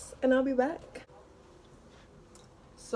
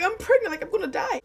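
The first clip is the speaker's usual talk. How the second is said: retold wailing; 11 semitones higher than usual. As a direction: replay the twelve-year-old's meltdown, pitched way up. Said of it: "I was, I was crying".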